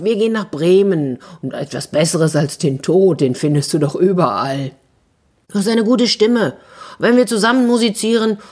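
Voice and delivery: lightly voiced donkey, cheering on a friend; a hint of hearty donkey recruiter; persuasive donkey. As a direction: talk the rooster into coming along.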